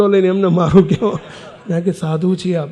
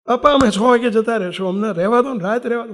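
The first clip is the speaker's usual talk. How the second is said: imitating a plea, slightly raised pitch; retold pleading; 3 semitones higher than usual. Monks begging the old man for a night's stay, retold pleading. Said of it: "અમે કગરીએ, આંખમાં આંસુ સાથે રડીએ".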